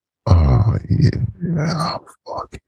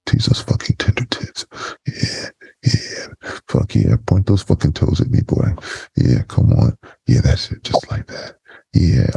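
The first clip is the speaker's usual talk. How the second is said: whispering. Acted. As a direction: breathe the words close to the mic.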